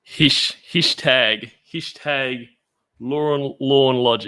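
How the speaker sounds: testing the sounds of "hashtag" out loud, unsure of the vowel; "hashtag" tried over and over, first slipping into "hish", checking each take; trying out hashtag. Shown as a demonstration. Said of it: "Is that, is that right?".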